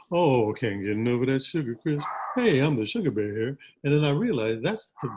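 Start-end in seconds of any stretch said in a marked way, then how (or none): 0.1-3.6 lightly put-on cartoon bear croon; a hint of the mascot bear, easy and lazy; Sugar Bear voice. Imitating the cereal bear mascot for the interviewer, lightly voiced. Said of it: "the Sugar Bear talked like this".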